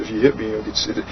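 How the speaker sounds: quiet, mocking retelling of the warning; smug warning. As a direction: drop to a quiet, mocking mimic of the coward.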